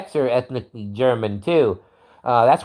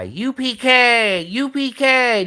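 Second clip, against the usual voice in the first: battle cry; 8 semitones higher, slower than usual. Shown as a demonstration. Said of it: "Just yell that over and over again".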